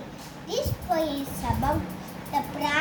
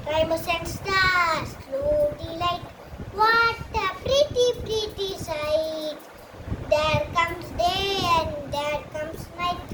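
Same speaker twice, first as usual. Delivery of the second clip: poem recitation. Real, not acted. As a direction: recite it like a rehearsed school poem. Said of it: "here to recite a poem about nature".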